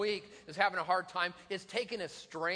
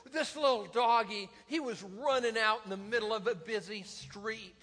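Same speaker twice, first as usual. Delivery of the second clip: slightly raised, pleading voice; imitated pleading wife; 3 semitones higher than usual. Wife pleading for stray dog, retold.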